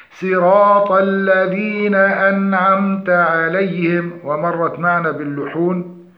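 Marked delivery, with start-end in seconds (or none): 0.1-4.1 slow melodic tajweed chant; Quran recitation. Shown as a demonstration. Teacher introduces the next verse, slow melodic recitation. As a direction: recite evenly with drawn-out vowels.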